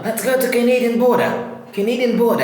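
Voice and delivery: imitating a Maine host's accent. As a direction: call out the trip in a Maine accent. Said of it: "eles meio que pegam esse sotaque".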